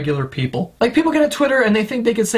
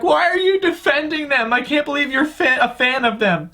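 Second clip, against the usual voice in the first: mock accusing fan; 5 semitones higher than usual. Mocking accusing audience.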